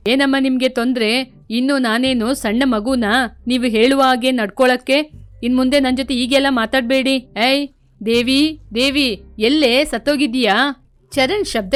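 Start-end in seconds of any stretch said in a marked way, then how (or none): 0.1-7.1 rude son. Acted. Son snapping at his mother. 7.4-10.7 calling out harshly. Acted. Husband yelling for his wife.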